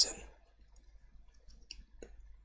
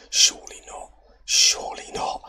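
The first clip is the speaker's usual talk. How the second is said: whispered disbelief; 3 semitones higher, 8 dB louder than usual. Real, not acted. Late goal conceded, disbelief.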